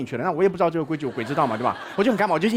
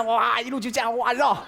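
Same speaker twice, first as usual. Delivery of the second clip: usual speaking voice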